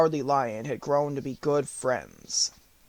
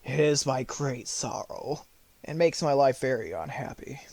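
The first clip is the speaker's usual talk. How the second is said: a tearful lion confiding his sorrow; hushed, sorrowing lion; sorrowful lion; 3 dB quieter than usual. Acted. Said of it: "wiping a tear from his eye".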